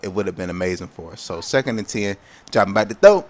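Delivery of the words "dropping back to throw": loud mock play-by-play call; QJB impersonation. Gamer calling his own play, loud hyped commentator voice.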